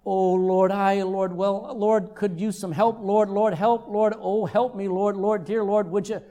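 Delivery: even-pitched pleading, "Lord" as filler; mock rambling prayer. Worshipper asking God for help, mock repetitive pleading. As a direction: drone on without ever getting there. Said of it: "How about".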